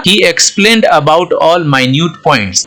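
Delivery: very slow, word by word, like dictation; slow example reading. Shown as a demonstration. Teacher reading the example sentence to students, very slow. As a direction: read it out slowly so students follow.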